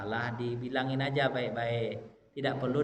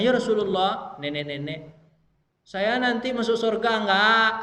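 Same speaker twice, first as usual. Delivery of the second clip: put-on higher, louder anxious old woman; old woman asking; 6 semitones higher, 6 dB louder than usual. Old woman anxiously asks the Prophet about heaven. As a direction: plead like a worried grandmother. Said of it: "Ibu-ibu bertanya".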